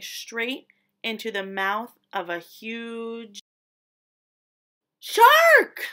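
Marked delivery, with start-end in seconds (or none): 5.0-5.9 much higher and louder shock on shark; dramatic reveal. A narrator's reading. Narrator revealing the huge shark. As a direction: burst it out to scare the listeners.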